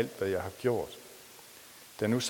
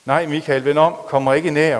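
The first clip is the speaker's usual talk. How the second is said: higher, louder desperate warning; frantic plea; 5 semitones higher, 12 dB louder than usual. Acted. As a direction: beg him to stay back. Sara begs Michael stay away. (desperat, højere og højere bøn)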